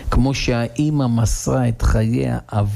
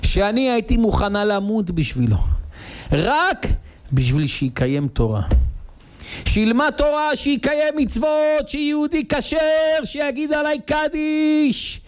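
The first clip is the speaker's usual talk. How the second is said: wife's plea; 6 semitones higher than usual. Acted. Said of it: "ואז היא אומרת לו".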